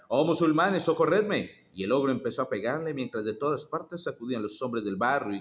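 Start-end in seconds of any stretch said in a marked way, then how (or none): 0.1-1.6 higher, louder cry for help. Acted. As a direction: call out to the neighbours in alarm. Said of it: "se puso a gritar".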